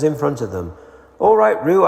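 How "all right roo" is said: calling out. A narrator's reading. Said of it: "calling out to the others".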